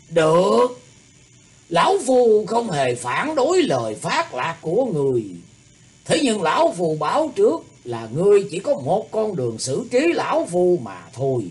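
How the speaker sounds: haughty. A narrator's reading. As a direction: speak down to him with pride. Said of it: "cười lanh lảnh cao ngạo".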